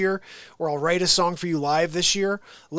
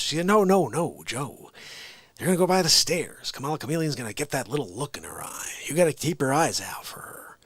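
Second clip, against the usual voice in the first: lightly voiced rambling politician, partly whispery; muddled president impression, sinking to a hush at the end; Joe Biden. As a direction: tell it as a conspiratorial folksy yarn. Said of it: "a good Joe Biden impression".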